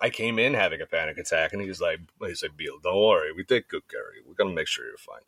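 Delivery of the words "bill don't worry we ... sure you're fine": put-on, fake Russian accent. Retelling a panic-attack visit, the doctor reassures the speaker: Boris the Blade accent. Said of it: "he sounds like Boris the Blade".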